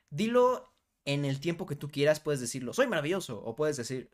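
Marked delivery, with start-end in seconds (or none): 2.7-3.4 "Soy maravilloso" run together in one quick breath; quick, unbroken affirmation; said quickly. Shown as a demonstration. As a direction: toss it off briskly in one go. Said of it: "Puedes decirlo rápido".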